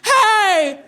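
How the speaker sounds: very high, slow, loud sob-laughing wail; crying reassurance. Retold or imitated. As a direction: cry out that you're fine. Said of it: "I was like".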